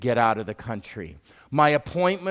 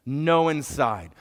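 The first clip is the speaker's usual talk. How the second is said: stubborn cab driver; slower than usual. Retold or imitated. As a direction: spell out the refusal slowly, no budging. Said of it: "He looks at me and says".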